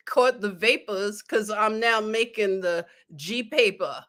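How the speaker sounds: a light, mock New York rapper delivery; New York accent. Shown as a demonstration. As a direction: say it with a playful New York accent, like a rap line. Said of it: "Let me say it like they would say it in New York".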